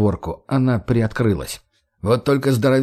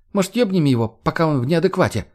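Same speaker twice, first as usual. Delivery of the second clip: put-on crude girl voice; 5 semitones higher than usual. Margo voiced in story.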